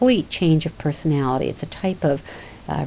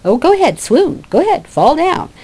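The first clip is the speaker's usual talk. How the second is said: mocking taunt; 10 semitones higher, 5 dB louder than usual. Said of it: "she's saying".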